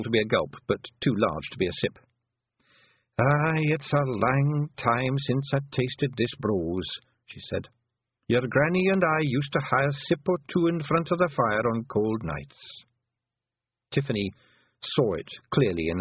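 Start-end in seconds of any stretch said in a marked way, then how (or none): 3.2-12.8 put-on higher Scottish old-woman voice, slow and proud; an old clan mother talking fondly of her lads; old Pictsie mother. Old Kelder tells Tiffany about her many sons, higher Scots burr.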